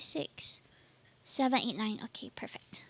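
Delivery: whispered counting; whispering. Real, not acted. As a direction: count it under your breath. Counting stickers under her breath.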